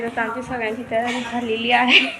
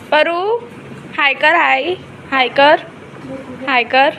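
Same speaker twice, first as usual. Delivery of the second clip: coaxing call; 4 semitones higher, slower than usual. Real, not acted. Mother coaxing child to say hi.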